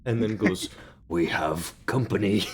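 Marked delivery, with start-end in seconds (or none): 1.1-2.4 slow monster voice. Acted. Creature speaks slowly.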